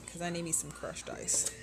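playful whispered confession; whispered aside. Real, not acted. Vlogger confiding she wants crushed ice, whispered. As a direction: whisper it like a little secret craving.

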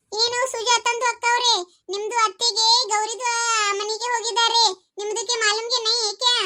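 drawn-out, sing-song Hindi-mixed Kannada; Raji akka. Acted. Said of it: "ಅಯ್ಯ ರಾಜಿ ಅಕ್ಕಾರ ಬಂದ್ ನೋಡ".

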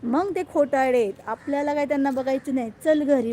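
put-on be the stubborn little boy; imitating her son. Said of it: "बोलतो".

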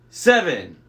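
loud monster outburst; indignant monster. A narrator's reading. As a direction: shout it back indignantly. Monster reacts to haggling.

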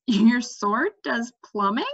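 slow, curious question; interested. Acted. Cimmerian asks Mendembar about his sword, interested. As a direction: perk up at a surprising idea. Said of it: "sounding interested".

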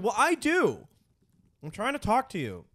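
high, strained, hurt whine; whiny upset partner. Retold or imitated. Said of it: "They're like".

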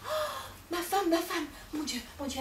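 high, wailing dismay; husband wailing as his wife walks out; panicked cry. Acted. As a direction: cry out in despair as she leaves.

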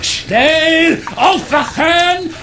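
high, hurried alarm calls; urgent wake-up call. Acted. Titus waking Justus about the flooded kitchen, high and urgent. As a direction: rouse him fast.

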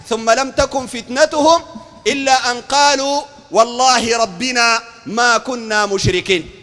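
slow, measured verse recitation; deliberate chanted delivery of holy text; Quran recitation. Acted. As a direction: recite scripture with drawn-out syllables.

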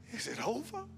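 soft, hushed rising question; quiet doubt, barely spoken; whispering. Retold or imitated. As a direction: ask it in a near whisper. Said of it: "some of us were even whispering".

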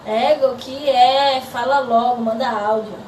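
loud and impatient, slow at the start; impatient yell. Real, not acted. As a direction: shout to get rid of the interruption. Yells at someone interrupting.

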